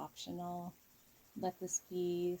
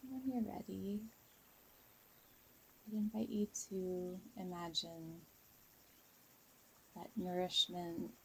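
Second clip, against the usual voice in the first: guided meditation. Real, not acted. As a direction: ease listeners into a calm visualization, unhurried. Leads a guided visualization.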